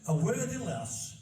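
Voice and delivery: slow, broad Yorkshire line; unhurried dialect recital; reading in Yorkshire dialect. Shown as a demonstration. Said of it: "and then it's".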